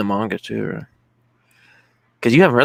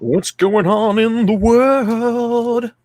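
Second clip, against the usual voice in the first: high mock voice; 12 semitones higher, 3 dB louder, much slower than usual.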